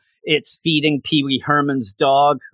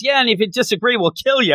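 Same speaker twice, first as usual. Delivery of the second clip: higher, mock menacing pirate captain; Alvida threat; 9 semitones higher, faster than usual. Alvida threatens the passengers, a hammed-up high villain voice. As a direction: tack on the threat with cartoon menace. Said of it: "Lady Alvida just shows up and says".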